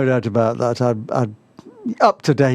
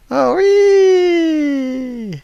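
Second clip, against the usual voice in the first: excited squeal; 12 semitones higher, 4 dB louder than usual. Real, not acted. Excited at game object.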